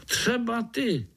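high, eager little voice rallying the others; high-pitched spider cheerfully calling his friends. Acted. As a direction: call out to the spiders as a small hero. Pája points at a spider.

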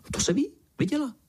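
very high, fast frog chirp; eager little frog nodding along; high quick frog voice; tree frog voice. A narrator's reading. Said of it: "kývla rosnička".

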